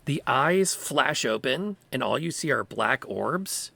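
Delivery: measured, suspenseful scene setting; slow in places, dramatic storytelling; game master narration. Acted. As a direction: draw out the reveal for the players.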